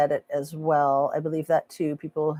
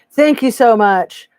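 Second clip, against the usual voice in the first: slow, drawn-out mock singer thank-you; a light crooner's croon on each word; famous-singer-like mimic; 5 semitones higher, 9 dB louder than usual. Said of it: "remind you of, like, a famous singer".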